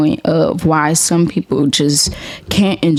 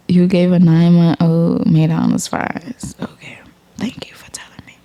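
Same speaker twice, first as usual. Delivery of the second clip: stunned whisper. Retold or imitated. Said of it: "So I'm like".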